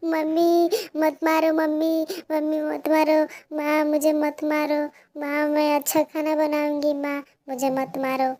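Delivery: high, loud frightened begging; pleading child. Acted. Pinky begging her mother to stop beating her, frightened. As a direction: beg her not to hit you.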